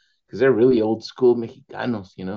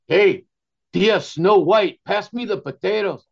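higher, louder slow call to his aunt; cheeky nephew; 9 semitones higher, 5 dB louder than usual. Retold or imitated. Rough nephew asking his aunt for potatoes, higher and louder. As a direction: call across the table like a clueless nephew. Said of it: "he goes".

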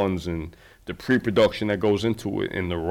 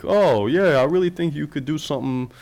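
imitating polite encouragement, higher-pitched; tactful encouragement; 4 semitones higher than usual. People gently nudging the filmmaker toward fiction, imitated tactful encouragement. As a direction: put on a mild, diplomatic lilt, starting high. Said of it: "They say it more like".

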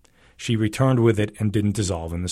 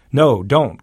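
higher, louder cry of protest; 4 semitones higher, 7 dB louder than usual. Acted. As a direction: cry out to stop him. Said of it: "cried Tuankaran".

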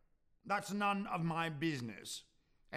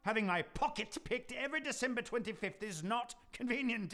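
scolding; 5 semitones higher than usual. Acted. Scrooge scolding Cratchit over Christmas.

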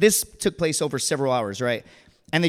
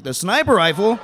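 SNIPER jumps high in disbelief; incredulous outburst; 5 semitones higher than usual. Acted. Marine echoing buddy's confession, aghast high "sniper". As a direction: repeat "sniper rifle" as an aghast question. Incredulous echo of worse admission.

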